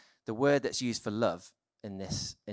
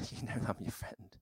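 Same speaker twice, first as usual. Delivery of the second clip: laughing tearful admission; 7 dB quieter than usual. Retold or imitated. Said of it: "It's like".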